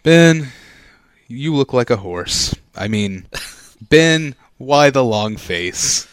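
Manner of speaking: mopey, yawning drawl; sad Eeyore voice. Acted. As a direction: sigh it out like a gloomy donkey. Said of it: "sounds kinda like you're yawning".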